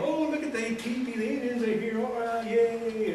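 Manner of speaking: put-on high, excited children's voices, the yay drawn out slowly; excited kids. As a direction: mimic a busload of thrilled kids spotting the teepee. Busload of kids arriving, excited.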